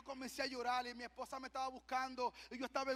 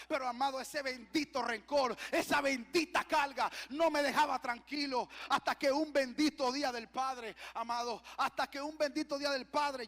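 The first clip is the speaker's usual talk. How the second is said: raised, forceful preacher voice; impassioned preaching; 6 dB louder than usual. Acted. Preacher confessing his feelings to the church, impassioned preaching. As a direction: press it out with fervor.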